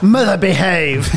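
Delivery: slow, laughing scold to mum; laughing mock scolding. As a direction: tease her through laughter. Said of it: "What was that?".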